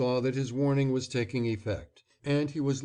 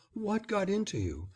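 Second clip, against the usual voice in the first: motherly; 8 semitones higher than usual. A narrator's reading. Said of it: "in the motherliest of tones".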